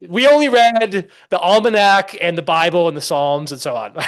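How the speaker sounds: imitating an old Minuteman scoffing at Locke; blunt old farmer. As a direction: shrug off the philosophers like a plain country man. Retold farmer's blunt answer.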